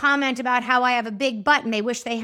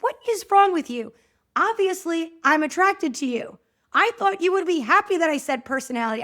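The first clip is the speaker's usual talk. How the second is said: higher, louder exasperated husband imitation; hammed-up frustrated husband, pitched up; 4 semitones higher, 4 dB louder than usual. Husband's exasperated reply retold.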